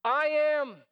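God answering the doubting Moses, loud and firm; booming declaration. Pretend.

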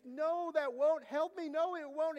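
high, loud, drawn-out imitation of a begging boy; crying plea. Little boy begging his parents at the allergist, crying plea. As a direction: imitate a child begging for mercy, slow and high. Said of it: "And he's crying. He's begging for mercy".

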